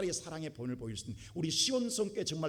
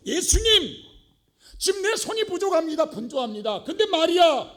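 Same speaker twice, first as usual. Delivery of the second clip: high, loud mock complaint to Jesus; hammed-up angry shout, much higher and louder; angry Martha; 13 semitones higher, 13 dB louder than usual. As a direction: shout it like a fed-up sister stuck in the kitchen. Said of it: "마르다가 화가 나가지고".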